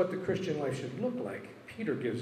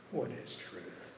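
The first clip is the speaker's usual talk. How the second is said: slow, softer, lower whisper; whispered question; 4 semitones lower, 6 dB quieter, much slower than usual. Acted. Pilate dismisses Jesus's words, slow hushed whisper. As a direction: let it fall away, slow and hushed.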